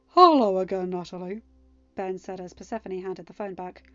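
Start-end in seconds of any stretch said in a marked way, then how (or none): 0.1-1.4 mock-pleasant greeting. A narrator's reading. King addresses fired servant.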